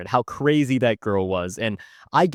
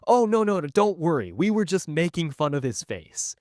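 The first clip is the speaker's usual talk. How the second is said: higher-pitched, hasty backpedal; flustered reassurance; 5 semitones higher than usual. Retold or imitated. Teen explaining himself to an offended sister, flustered. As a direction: act out trying to placate someone.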